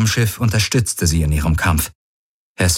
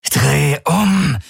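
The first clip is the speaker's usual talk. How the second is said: barking order; 8 semitones higher than usual. Acted. Jun grabs Galen by the collar, harsh high order. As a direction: snap the order at him. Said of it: "herrschte er ihn an".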